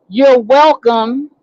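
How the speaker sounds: slow, drawn-out sarcastic retort. Retold or imitated. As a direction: stretch it out with pointed sarcasm. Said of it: "I gave her a sarcastic".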